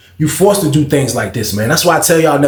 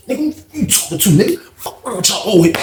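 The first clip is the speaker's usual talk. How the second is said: put-on high, taunting yell at the old heads; mock angry yell; 5 semitones higher than usual. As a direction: bark it like a fighter mid-brawl. Acted quote of fighter yelling.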